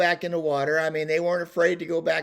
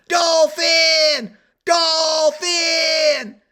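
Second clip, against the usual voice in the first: high, long-drawn holler; yelling; 12 semitones higher, 9 dB louder, much slower than usual. Retold or imitated. Husband on balcony correcting his frightened wife, yelling. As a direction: bellow the correction across a distance. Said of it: "and I start yelling".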